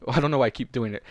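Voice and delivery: usual speaking voice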